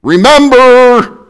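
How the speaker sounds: slow, loud remember; emphatic remember. Real, not acted. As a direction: hammer the point home. Preacher's point shouted.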